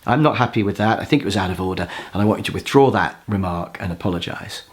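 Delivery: low, softened, unhurried firmness; calm assertiveness. Shown as a demonstration. An assertive person asking for a remark withdrawn, calm and low. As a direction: state feeling and want without heat. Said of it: "the assertive person just calmly says".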